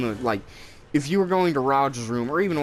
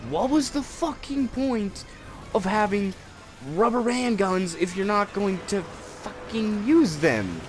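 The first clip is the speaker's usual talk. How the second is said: mock outrage; 8 semitones higher than usual. Mock outrage at an absurd childhood rule.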